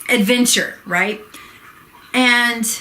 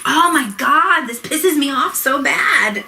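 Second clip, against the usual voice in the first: getting angry; 2 semitones higher than usual. Real, not acted. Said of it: "I'm getting pissed".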